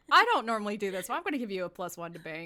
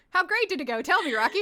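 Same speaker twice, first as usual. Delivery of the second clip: excited teasing; 8 semitones higher, 9 dB louder, much faster than usual. Real, not acted. GM teasing after bad roll.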